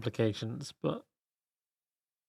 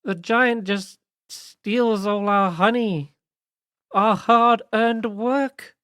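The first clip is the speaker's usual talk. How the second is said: high, light sprite voice; small fairy queen pleading; 8 semitones higher than usual. Acted. Pollinella character voice.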